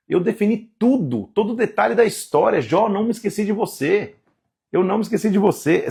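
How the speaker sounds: God reminding Job he is not forgotten. Acted. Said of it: "ele fala".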